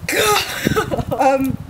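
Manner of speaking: gasping high from the cold; shocked by freezing water; in ice cold water. Real, not acted. Ice water just poured.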